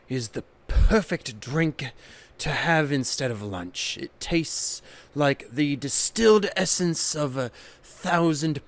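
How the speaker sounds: snobby European hipster. Pretend. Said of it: "a snobby European hipster".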